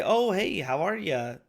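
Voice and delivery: high, upbeat phone greeting; phone small-talk greeting. Acted. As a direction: greet a client brightly, pitch leaping up on "Oh, hey". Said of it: "a lot of times when I'm on the phone, I'll say".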